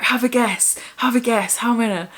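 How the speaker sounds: retold giddy guessing game; excited. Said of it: "she was so excited to tell us".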